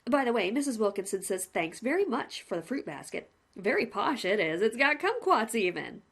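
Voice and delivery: lightly voiced jovial jailer; chummy warden with a grin; the warden teasing the prisoner, lightly voiced; grinning warden.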